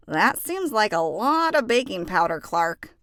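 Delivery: a gentle worried warning; cautious friend pointing out a mistake; Chico's voice. Acted. Chico warns Clark in story.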